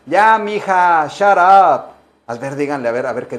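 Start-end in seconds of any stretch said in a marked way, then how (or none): 0.1-1.8 lento, agudo y fuerte, cortante; despáchala con aire de hartazgo; desdén fingido. Pretend. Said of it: "A la tóxica". (a la tóxica, con desdén)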